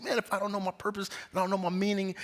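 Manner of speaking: high, softened mock distress; tearful earnest buddy. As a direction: imitate an upset friend pleading in a high voice. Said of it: "he got a little sad, and you could see, like, tears in his eyes".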